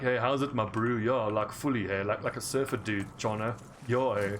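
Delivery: put-on laid-back Durban surfer-dude accent. Durbanite inviting his bro to the beach, surfer-dude Durban accent. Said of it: "Like, a Durbanite will sound like".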